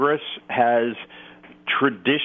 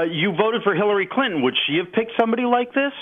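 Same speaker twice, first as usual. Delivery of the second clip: higher, needling challenge; challenging question; 8 semitones higher than usual. Real, not acted. Host challenging cohost about his Hillary vote, rising and needling. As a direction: press him on it, pitch climbing.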